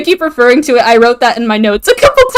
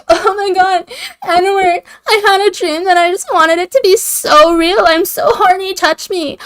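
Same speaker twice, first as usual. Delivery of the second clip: mock Bella plea; 7 semitones higher than usual. Bella voiced, pleading.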